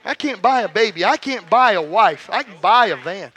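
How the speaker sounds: emphatic testimony, hammering each contrast; rousing preacher's declaration; preaching. Real, not acted. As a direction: declare it firmly to the congregation. Preaches at force again.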